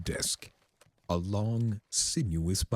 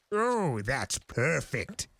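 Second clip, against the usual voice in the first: high sarcastic outburst; sarcastic high yell, slowed; mock yell; 9 semitones higher, slower than usual. A narrator's reading. Discord mocking the form, high sarcastic yell. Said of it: "yelled Discord".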